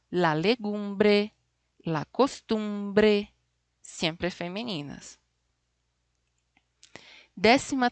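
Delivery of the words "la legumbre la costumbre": very slow, each word drawn out for the class; slow model words. Shown as a demonstration. Spanish teacher to Portuguese-speaking students, slow and clear. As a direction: lay out la legumbre, la costumbre slowly and clearly. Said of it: "Mira solo".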